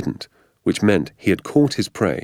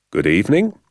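friendly; 3 semitones higher, 5 dB louder than usual. Acted. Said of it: "nice and friendly".

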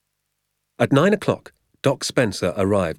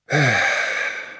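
long, breathy sigh; contented sigh; 5 semitones higher than usual. Acted. Father settles down with hot cocoa.

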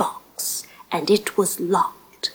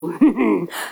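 smug chuckle; 2 semitones lower than usual. A narrator's reading. Giant chuckles at silly dream.

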